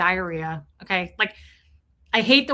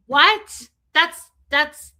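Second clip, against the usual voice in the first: baffled disbelief; 4 semitones higher, 8 dB louder, much slower than usual. Real, not acted. Baffled reaction to mom's phrase.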